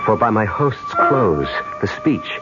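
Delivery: low, measured inner monologue; story narration. Acted. Man recounts his dream of the past, measured narration. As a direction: confide it as a storyteller, low and unhurried.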